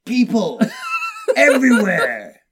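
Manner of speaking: high, loud, slow stoner drawl; a dazed acid tripper, awestruck; stoned tripping guy. Acted. Voicing a tripping guy to Beelzebub.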